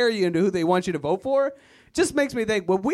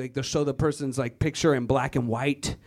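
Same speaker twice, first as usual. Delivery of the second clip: ordinary delivery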